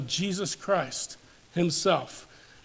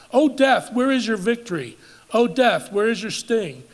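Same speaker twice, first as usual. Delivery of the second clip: proclaiming; 3 semitones higher, 4 dB louder than usual. Acted. Preacher proclaiming scripture climax.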